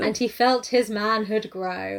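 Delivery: slow, measured preacher's delivery; mock sermon reading. Imitating audiobook narrator to co-host, slow sermon-like reading. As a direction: read the love scene like a solemn sermon. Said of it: "read it like a fucking sermon".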